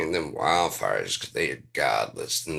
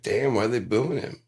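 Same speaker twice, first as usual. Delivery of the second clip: puzzled surprise; 7 semitones higher, 6 dB louder than usual. Retold or imitated. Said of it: "I was like".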